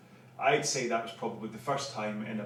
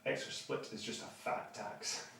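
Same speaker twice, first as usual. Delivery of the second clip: quoting Andrew; 2 semitones lower, 9 dB quieter, slower than usual. Retold or imitated. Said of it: "what does Andrew say?".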